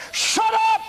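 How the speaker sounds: very high, loud scream of a rebuke; screamed command. Retold or imitated. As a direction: blast it out from the belly. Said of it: "And I screamed again".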